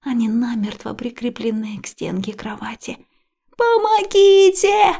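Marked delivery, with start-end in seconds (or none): 3.6-4.9 very high, loud, drawn-out yell. A narrator's reading. Liya screaming for help as water rises, full yell. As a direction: scream with everything you have. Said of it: "ору я".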